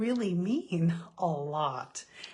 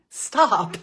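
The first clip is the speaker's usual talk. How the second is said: sharp, higher, loud command; firm loud stop; 3 semitones higher, 9 dB louder than usual. Retold or imitated. Mother ordering her own runaway thoughts to halt, loud. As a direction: slam the brakes on the thought.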